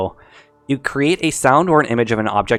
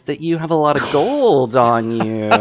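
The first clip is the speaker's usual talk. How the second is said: thug voice; slower than usual. Acted. GM voices bandit leader.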